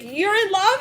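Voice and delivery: high, rising shocked question; mock amazed friend; surprised question. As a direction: ask in disbelief. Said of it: "it's like".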